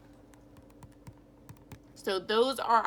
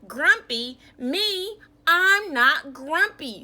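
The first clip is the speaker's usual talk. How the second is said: loud indignant protest, higher pitch; grumpy denial; 7 semitones higher, 9 dB louder, slower than usual. Acted. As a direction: bark the denial, offended. Jim denies again.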